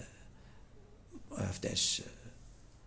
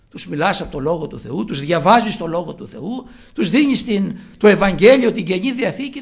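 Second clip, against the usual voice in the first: builds from even to loud insistence; rising preaching; 9 dB louder than usual. Real, not acted. Preacher rebuking people who won't read scripture, building loud. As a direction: press the point harder each phrase.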